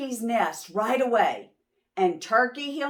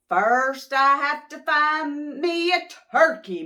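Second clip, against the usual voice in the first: loud, higher sing-song call; bellowed back; 6 semitones higher, 6 dB louder than usual. Acted. Mister Moose bellowing back up to Sheep. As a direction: holler it back uphill. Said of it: "Mister Moose bellowed back".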